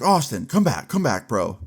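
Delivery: retold call to come back, mildly urgent; calling after someone. Brandon to classmate walking away from him, calling after him.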